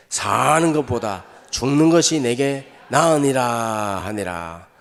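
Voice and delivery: slow, steady unison Bible reading; scripture reading. Acted. Pastor leads the congregation reading aloud, slow and steady. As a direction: read the verse together, measured and even.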